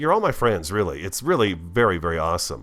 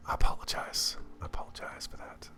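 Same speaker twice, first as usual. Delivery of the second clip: sheepish whisper under the breath; whispered apology; 5 dB quieter than usual. Real, not acted. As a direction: whisper it, a little embarrassed.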